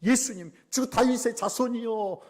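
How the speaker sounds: high, loud, drawn-out call; long pleading shout; crying out. Acted. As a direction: call out desperately for help. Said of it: "소리를 질렀어요".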